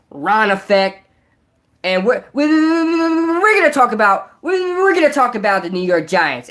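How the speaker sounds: hammed-up YouTuber intro building into high, worked-up ranting; Ron Effect. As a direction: open like a channel host, then climb into an exasperated, stuttering rant. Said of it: "Do a Ron Effect impression".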